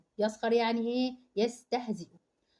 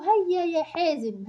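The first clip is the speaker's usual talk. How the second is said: higher, slow call to hurry Hazem; teacher urging; 6 semitones higher, 3 dB louder, slower than usual. Acted. Teacher calls out to Hazem to hurry up. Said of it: "المعلمة قالت له".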